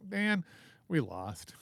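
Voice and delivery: sag into a deflated loser's groan; mock dejection. A Haman fan whose side lost, mock dejected.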